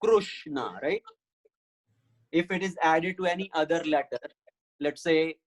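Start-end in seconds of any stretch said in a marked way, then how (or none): 0.0-0.8 Krishna said "KRUSH-na"; Krishna as Krushna. Shown as a demonstration. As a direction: say Krishna with "ru" after the K. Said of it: "So ka plus Ru".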